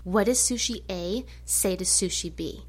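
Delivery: lightly imitated boy telling a joke with great seriousness; a hint of a solemn child joke-teller; mock-serious little boy. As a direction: set up the joke in mock earnest, understated. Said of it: "he, like, gets all serious".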